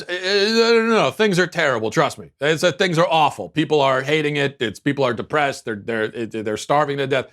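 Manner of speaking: mock a candidate insisting things are terrible. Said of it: "the setup to the question is".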